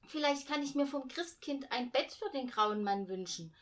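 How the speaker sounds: put-on high, loud excited child voice. A narrator's reading. Girl eagerly tells mother her wish for the grey man, high and loud. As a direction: bubble with the new idea. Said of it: "sagte Hannah aufgeregt".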